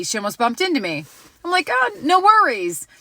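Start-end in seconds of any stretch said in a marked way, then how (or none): 1.7-2.9 high, friendly brush-off; re-enacted light, polite reassurance; breezy reassurance. Shopper answering a stranger's apology, breezy reassurance.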